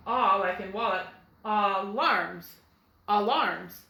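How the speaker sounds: "alarms" with ah at the start and the stress at the end; ah in first syllable. Shown as a demonstration. Teacher testing the end accent, ah then stressed "alarms". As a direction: say ah-LARMS, stress moved to the end. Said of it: "It's gonna say".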